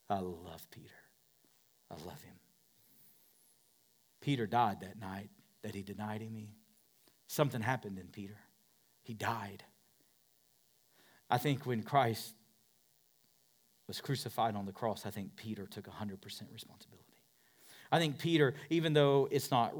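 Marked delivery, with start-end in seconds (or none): 0.1-2.3 whisper. Shown as a demonstration. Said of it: "Oh, I love Peter". 15.0-17.0 quick hushed whisper. Acted. Preacher drops to whisper.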